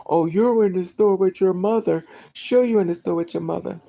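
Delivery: retold scoffing, pushed up and loud; mocking disbelief. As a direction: jeer as if nobody believes a word. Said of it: "They all started laughing".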